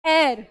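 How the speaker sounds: "air" said alone, with no h sound; pronunciation model. Shown as a demonstration. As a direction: give "air" as the model word, set apart. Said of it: "this is pronounced as". ("air" अलग से, बिना h के, साफ़)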